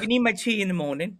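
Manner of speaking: lightly put-on British accent; playful British impression. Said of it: "Talking to a lot of British people".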